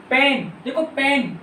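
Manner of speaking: पेन said slowly and clearly with a firm P; teacher modelling a word for children; slow clear demo. Shown as a demonstration. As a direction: spell out the sound in पेन for the class. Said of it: "पेन मेरे साथ बोलो".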